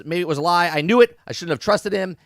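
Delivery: mock losing-it outburst; freaking out. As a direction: act out somebody freaking out. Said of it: "He freaks out and says".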